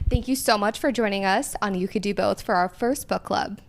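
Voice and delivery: polished TV anchor sign-off; news reporter voice. Pretend. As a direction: read it like a local news anchor. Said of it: "close us out with your news reporter voice".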